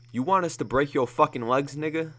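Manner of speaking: furious shouted threat; yelled threat. Acted. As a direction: bark the threat while waving the gun. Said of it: "Joseph yelled at Deshaun".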